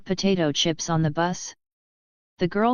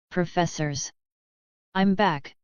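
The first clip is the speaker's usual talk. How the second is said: panting. A narrator's reading. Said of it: "Hermione panted".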